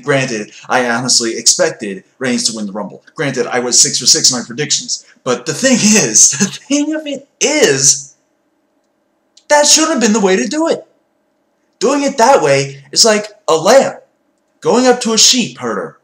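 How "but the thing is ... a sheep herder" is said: high, laughing rant; wild unhinged ranting. Real, not acted.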